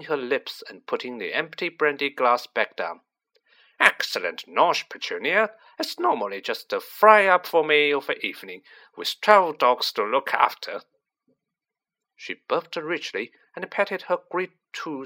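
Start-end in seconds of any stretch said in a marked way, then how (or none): 3.8-10.8 lightly voiced domineering aunt, louder; overbearing aunt. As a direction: play a boastful, self-satisfied aunt, a little louder. Voices Aunt March at dinner.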